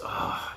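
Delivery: voiceless, resigned huff; exasperated sigh. Retold or imitated. Monster obeying the girl's order, mock exasperated sigh. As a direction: give in with an imitated sigh.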